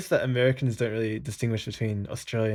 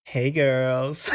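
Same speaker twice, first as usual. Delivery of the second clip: put-on Valley Girl accent. Shown as a demonstration. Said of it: "can you speak with a Valley Girl accent".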